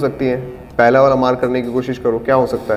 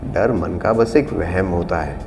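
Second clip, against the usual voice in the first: slow monologue read; 7 semitones lower, 3 dB quieter, slower than usual. Shown as a demonstration. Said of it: "monologue read slowly".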